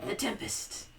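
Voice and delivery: hushed unvoiced whisper. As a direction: whisper the title. Whispered title.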